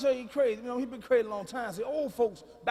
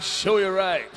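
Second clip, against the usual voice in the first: a deep-voiced singer; 2 semitones lower, 5 dB louder, much slower than usual. Acted. One singer to another in the sauna, celebrity impression. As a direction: answer as the singer, a little louder. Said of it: "And Barry White be like".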